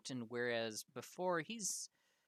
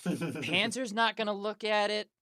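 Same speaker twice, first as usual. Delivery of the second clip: laughing; 9 semitones higher, 8 dB louder than usual. Real, not acted. GM laughing at player.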